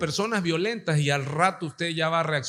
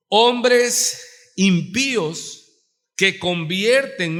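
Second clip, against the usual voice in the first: solemn scripture reading; 4 semitones higher, 4 dB louder, much slower than usual. Acted. Reads scripture with emphasis.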